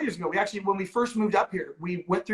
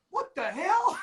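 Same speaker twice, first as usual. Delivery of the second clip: mock exasperation; 11 semitones higher, slower than usual. A month into quarantine.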